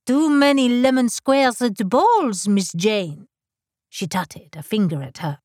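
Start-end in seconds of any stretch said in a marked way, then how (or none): 0.0-3.3 louder, higher tutting madame; huffy French dressmaker. Acted. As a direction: huff it like a scolding modiste. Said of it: "Madame huffed".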